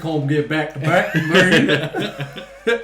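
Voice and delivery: lightly voiced southern accent. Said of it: "why are you doing my southern accent".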